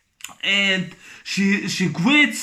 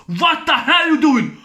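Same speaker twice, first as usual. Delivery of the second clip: mock shocked shout; 5 semitones higher, 3 dB louder than usual. Voices bystander's shocked question.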